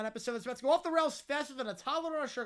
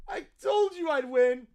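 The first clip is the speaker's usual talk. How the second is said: bratty gloating; 6 dB louder than usual. Acted. Bratty kid gloats over win.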